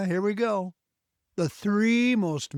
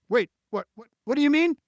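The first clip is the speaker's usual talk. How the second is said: high, louder flustered "what, what"; baffled reaction; 8 semitones higher, 5 dB louder, much faster than usual. Retold or imitated. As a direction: imitate someone thrown off. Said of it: "feel just a little bit off put, like".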